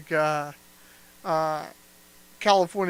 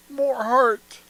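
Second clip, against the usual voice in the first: louder, with more heart; 5 semitones higher, 8 dB louder than usual. Shown as a demonstration. Director asking for more heart. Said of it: "What do you mean, more heart?".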